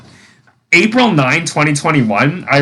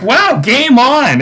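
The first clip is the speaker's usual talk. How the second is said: put-on young mom accepts; 11 semitones higher, slower than usual. Young mom taking up the hangman challenge, high and excited. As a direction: draw out a high, eager acceptance. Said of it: "then she's like".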